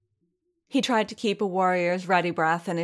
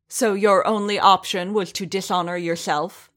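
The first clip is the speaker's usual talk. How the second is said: louder snarling question; angry snarl, pushed louder; 2 semitones higher, 5 dB louder than usual. Acted. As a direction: snarl the accusation at him. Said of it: "the armorer snarled".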